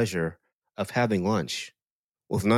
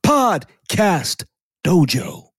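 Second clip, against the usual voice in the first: slow, drawn-out hype announcer voice, much higher; Dwayne Johnson wrestling voice; 9 semitones higher, 3 dB louder, much slower than usual. Retold or imitated. Podcast host opening the show as a wrestler, slow hype promo. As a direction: stretch every word like a wrestling promo entrance. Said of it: "'cause that was his wrestling voice".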